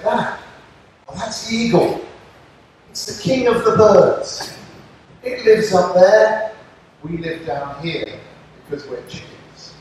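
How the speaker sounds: a hint of a proud little chicken explaining; chicken friend. Chicken telling the eagle about the king of birds, lightly voiced.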